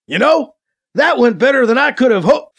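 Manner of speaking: triumphant, loud relieved exclamation; relieved cheer. Acted. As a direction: call it out, pleased with yourself. Character cheers before being shot.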